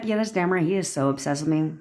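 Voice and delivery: confident, unbothered brag; nonchalant. Retold or imitated. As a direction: shrug it off like it's obvious. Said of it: "It's the nonchalant attitude".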